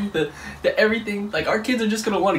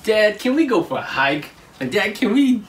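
lightly voiced eager kid, a bit higher; kids asking Dad; 4 semitones higher than usual. Kids asking Dad to go for a hike, lightly imitated child. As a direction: mimic a child pitching an outing to Dad. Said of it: "they're gonna go".

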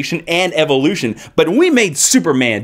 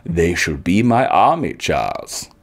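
imitating Magneto; 7 semitones lower, slower than usual. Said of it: "he's like".

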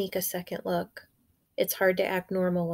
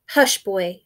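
angry hush; 5 dB louder than usual. Acted. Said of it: "her voice angry".

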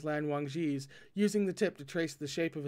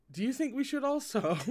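higher, lightly amused question; chuckling; 8 semitones higher than usual. A narrator's reading. Wei Wuxian teasing Lan Wangji, lightly chuckled. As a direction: ask it with a touch of a chuckle. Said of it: "Wei Wuxian chuckled".

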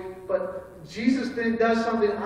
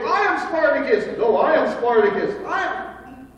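lightly acted, insistent crowd claims; crowd calling out; 4 semitones higher, 3 dB louder than usual. Crowd protecting the guilty man from arrest, calling out. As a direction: call out as rival voices from a crowd.

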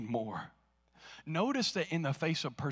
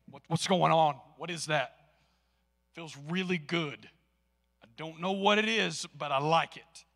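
surprised lady; 4 semitones higher, 5 dB louder than usual. Retold or imitated. Store lady amazed by aura.

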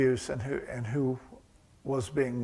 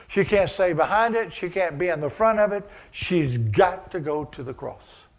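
building preaching; 3 semitones higher, 5 dB louder than usual. Acted. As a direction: build it up like a preacher reaching the peak.

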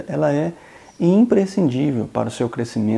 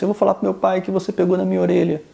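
put-on high, fast whiny kid; crying child threat; 7 semitones higher, faster than usual. Boy threatens the man, high and fast, a touch tearful. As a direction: whine it out like a tattling boy. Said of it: "ele começou a chorar e disse".

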